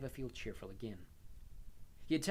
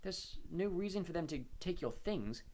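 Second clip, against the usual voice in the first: flat; 6 semitones higher than usual. A narrator's reading. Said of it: "he said flatly".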